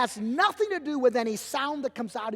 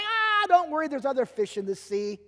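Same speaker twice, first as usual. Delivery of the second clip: dismissive comfort. Retold or imitated. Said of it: "don't look at her and say".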